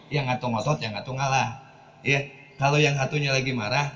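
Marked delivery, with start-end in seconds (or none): 0.1-1.6 calm yielding. Shown as a demonstration. Preacher shows one spouse giving in to the other, calm. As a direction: let the tension drop as one gives way.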